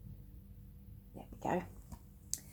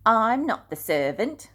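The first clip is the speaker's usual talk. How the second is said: higher, much louder indignant protest; Peter refusing; 6 semitones higher, 10 dB louder than usual. Acted. Peter refusing to wash the feet, indignant. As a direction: refuse the lowly job outright. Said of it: "Peter said".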